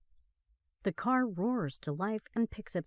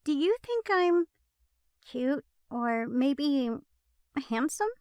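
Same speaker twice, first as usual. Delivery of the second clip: playful high flirty tease; coyly fishing for a compliment; teasing; 7 semitones higher, 4 dB louder than usual. A narrator's reading. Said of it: "Becca teases".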